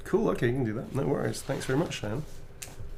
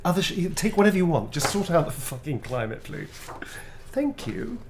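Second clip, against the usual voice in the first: mock pleading; 6 semitones higher, 3 dB louder than usual. Pleading jokingly with Illuminati.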